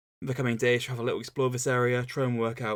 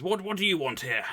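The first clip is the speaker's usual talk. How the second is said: whiny voice; 7 semitones higher than usual. Acted. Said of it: "that whiny little voice isn't Dooku's".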